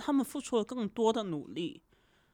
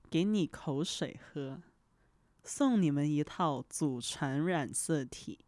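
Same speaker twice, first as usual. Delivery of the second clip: broadcaster voice; 3 semitones lower than usual. Shown as a demonstration. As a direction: read it like a state news anchor, lightly. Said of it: "试一下模仿播音腔".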